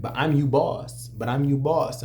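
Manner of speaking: light Spanish accent, imitating boss; bossy Spanish-accented voice. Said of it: "in their Spanish accent".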